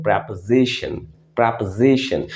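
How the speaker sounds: प्रपोजिशन with a short first vowel, said with care; correct pronunciation. Shown as a demonstration. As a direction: model प्रपोजिशन for learners. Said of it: "इसे हम कहते हैं". (प्रपोजिशन का सही उच्चारण, ध्यान से)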